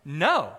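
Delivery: emphatic, weighty NO. Acted. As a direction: say NO firmly, as a verdict. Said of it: "answer that with emphatic".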